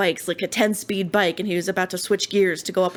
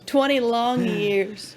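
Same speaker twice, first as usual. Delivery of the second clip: mock weary drawl; 4 semitones higher, much slower than usual. Joking exaggeration.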